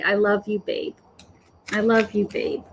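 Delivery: understated, hushed affection; tender. Retold or imitated. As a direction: gently pass on a loving message. Relaying a dead fiance's love.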